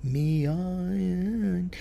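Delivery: Mi ayin with stress on Mi; accent on mi. Retold or imitated. Imitating the singer stressing Mi wrongly. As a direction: lean hard on Mi, first syllable. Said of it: "the singer was accenting in that song".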